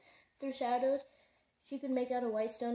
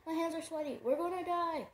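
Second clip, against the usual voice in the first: much higher, frantic wail; panicked wail; 6 semitones higher than usual. A narrator's reading. Sophie panicking while dangling.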